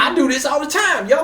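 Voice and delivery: put-on high, loud caricatured Black American accent; imitated Black American speech. Comic defends doing accents by doing another, high mock Black American accent. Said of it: "I don't mind doing black people".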